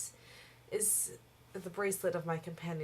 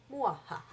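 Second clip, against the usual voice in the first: evil villain cackle; sinister laugh; 3 dB louder than usual. Acted. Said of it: "My laugh is so sinister".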